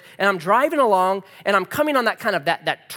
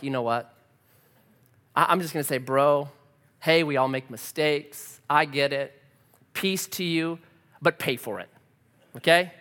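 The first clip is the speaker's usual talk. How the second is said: calm; 4 semitones lower, 3 dB quieter than usual. Retold or imitated. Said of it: "I still had the Easter glow".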